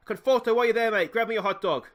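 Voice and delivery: high, loud shout across to a mate; jokey call-out. Pretend. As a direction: holler a cheeky food order to the player. Jokingly calls out to player.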